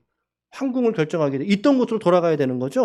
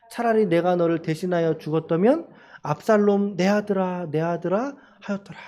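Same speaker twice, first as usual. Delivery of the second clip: scripture reading. Acted. Pastor leading the congregation in reading scripture, solemn. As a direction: read it together, measured and steady.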